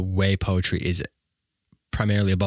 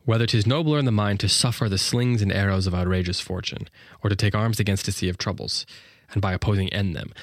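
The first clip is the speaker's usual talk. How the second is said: flowing verse. Shown as a demonstration. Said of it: "great enjambment".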